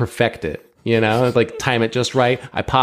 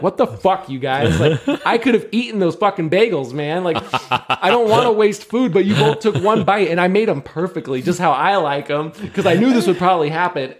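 higher, half-laughing exasperated scolding; mock frustrated rant; 5 semitones higher than usual. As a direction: scold the kids over wasted bagels, laughing at yourself. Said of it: "I'm like".

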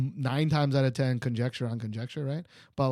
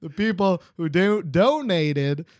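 Texas accent; 4 dB louder than usual. Real, not acted. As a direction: let a little Texas creep in. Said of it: "Your Texas came out".

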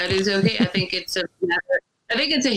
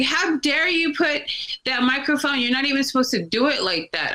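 higher, indignant mock outrage, imitating the guy; a higher-pitched scolding impression of the troll; mock outraged troll; 7 semitones higher than usual. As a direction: lift the voice into a huffy imitation of the angry guy. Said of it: "This guy freaked out".

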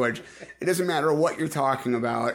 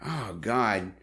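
anime villain. Retold or imitated. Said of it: "They always have some line like".

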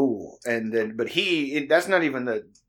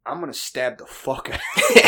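laughing mock threat; 3 semitones higher, 6 dB louder than usual. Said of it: "he'd be like".

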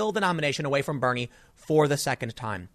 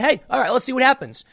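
higher and louder, mock patient shrug; resigned shrug; 8 semitones higher, 3 dB louder, faster than usual. Retelling his own tolerance, higher mock patience. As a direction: go along with it, half-hearted. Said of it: "And I said".

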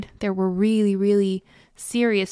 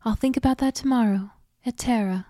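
put-on Southern accent; 2 semitones higher, faster than usual. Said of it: "in her best high-pitched Southern accent".

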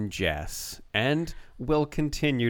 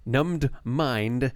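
best reading voice. Shown as a demonstration. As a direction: draw out the dramatic phrases. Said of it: "I'll read it in my best, uh, voice".

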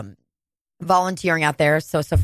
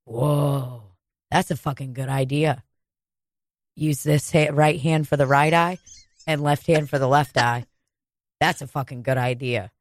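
stoned friend; 5 semitones lower than usual. Retold or imitated. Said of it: "Sophia looks at me so high and goes".

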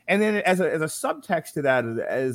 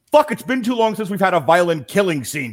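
impatient Verhoeven; 7 semitones higher, 6 dB louder than usual. Retold or imitated. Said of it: "it's almost like Paul Verhoeven's".

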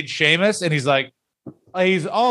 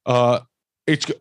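mock Sheamus; 2 semitones lower, faster than usual. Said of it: "Sheamus got in the ring and went".

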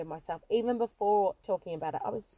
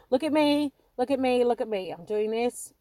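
mock show-off, louder and bright; attention-seeking kid; 3 dB louder than usual. Young her on stage craving attention, mock show-off. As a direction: play the child begging for the spotlight. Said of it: "It's like".

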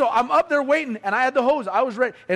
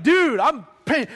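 gloating; 4 semitones higher, 5 dB louder, slower than usual. Retold or imitated. Gloating at brother.

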